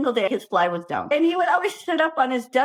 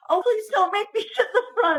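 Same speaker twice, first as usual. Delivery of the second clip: pleading whine; 9 semitones higher than usual. Retold or imitated. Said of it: "we'd all just be like".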